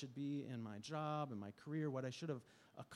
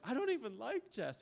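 incredulous repeat; 10 semitones higher, 6 dB louder than usual. Retold or imitated. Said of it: "And I was like".

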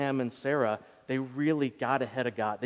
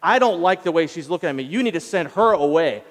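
louder, higher angry demand; mad Sarah; 4 semitones higher, 7 dB louder than usual. Retold or imitated. Sarah demanding Abraham send Hagar away, angry and loud. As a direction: demand the boy be sent away, heated. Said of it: "But she's like".

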